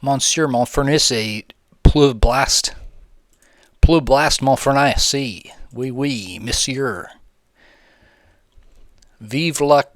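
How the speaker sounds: hammed-up fake French, drawn out; lightly put-on French accent; mock French accent. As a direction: play a cartoon Frenchman badly. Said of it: "excuse my French".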